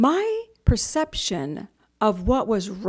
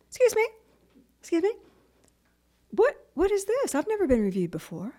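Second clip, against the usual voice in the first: indignant surprise; 9 semitones higher than usual. Retold or imitated. Acted protest on seeing the review.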